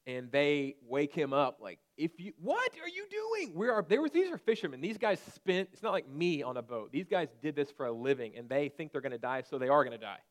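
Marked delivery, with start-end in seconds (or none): 2.0-10.2 panicked disciples. Acted. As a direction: cry out like fishermen sure they'll drown. Disciples wake Jesus in storm.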